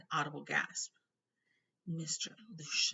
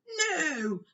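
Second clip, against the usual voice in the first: growled; 12 semitones higher, 10 dB louder than usual. A narrator's reading. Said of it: "growled Hagrid".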